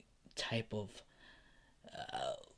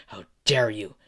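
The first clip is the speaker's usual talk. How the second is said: angry. Acted. Villain repeats demand while kicking.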